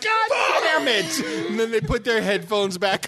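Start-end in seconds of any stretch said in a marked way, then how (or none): 0.0-1.2 high, slow laughing yell; mock yell. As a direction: yell it like a startled listener. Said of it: "people are like".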